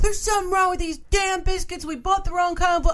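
mock very high, rushed, flustered panic. Retelling how he called her in over the biscuits, imitating someone panicking. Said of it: "it's part panic".

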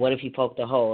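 ordinary talk

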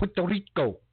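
put-on "Puerto Rico" given an accent, said high. Imitating a politician who switches accent for a place name: Alexandria Ocasio-Cortez's accented "Puerto Rico". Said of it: "she throws in the accent".

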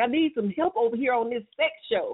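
light, mild, half-hearted yelled scream. A host retelling a man yelling during the show, imitating someone screaming. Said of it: "he's screaming, like".

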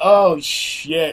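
put-on laughing reaction. Retelling arriving where a crowd waited outside, reenacting a laughing 'oh shit'. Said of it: "And I'm laughing".

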